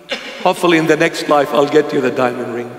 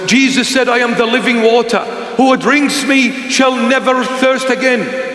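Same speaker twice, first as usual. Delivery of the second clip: preachy oversaved Christian; 6 semitones higher than usual. Retold or imitated. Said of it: "this oversaved Christian".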